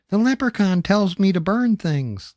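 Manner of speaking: crazed different person. Retold or imitated. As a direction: play someone who has lost their mind. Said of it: "Like that kind of different person".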